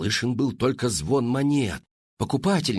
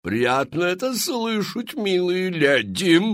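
showy saleswoman; 7 semitones higher, slower than usual. Acted. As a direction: sell it like a grand Parisian hostess. Мадам Фру-Фру. (высокий громкий голос мадам-зазывалы)

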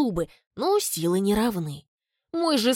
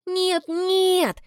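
smiling refusal; 10 semitones higher than usual. A narrator's reading. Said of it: "улыбаюсь я".

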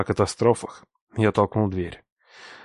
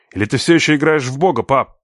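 defiant jab; 4 semitones higher, 4 dB louder than usual. Acted. Son challenges father.

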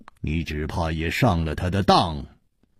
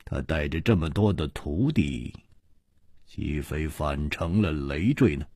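cold sneer; 3 semitones lower than usual. Acted. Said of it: "楚留香冷笑着说".

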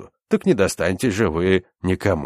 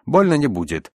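higher, lilting reassurance; cooing; 7 semitones higher, 4 dB louder than usual. A narrator's reading. Medic promises the patient no pain, cooing. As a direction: soothe with a raised lilt. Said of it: "заворковал я".

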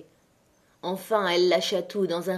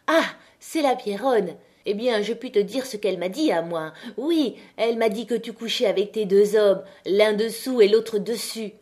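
spiteful retort; 3 semitones higher, 4 dB louder than usual. Acted. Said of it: "éclata d'un rire aigu".

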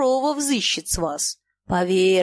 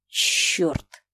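low breathless whispered curse; 4 semitones lower than usual. A narrator's reading. Staring at the door, a whispered curse. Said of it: "прошептал Ежов".

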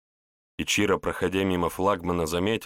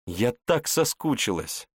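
chirping; 5 semitones higher than usual. Acted. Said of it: "прощебетала она на ухо".

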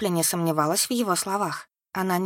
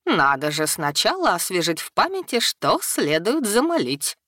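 sultry voice. Acted. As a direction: draw it out like a seductress. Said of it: "добавила томным голосом".

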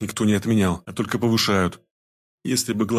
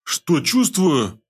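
very slow, much higher, tasting each word; savouring the words; 7 semitones higher, much slower than usual. A narrator's reading. Pelmen repeats the question, savouring it very slowly. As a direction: roll the question round your tongue. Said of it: "перекатывая язык, как будто пробуя чувство на вкус".

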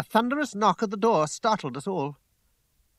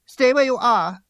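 loud, high command; sharp order; 8 semitones higher, 11 dB louder than usual. A narrator's reading. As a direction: order him loudly to stay put. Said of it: "she ordered".

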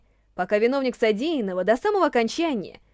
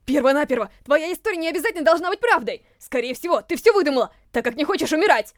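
angry. Acted. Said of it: "чуть ли не с пеной у рта".

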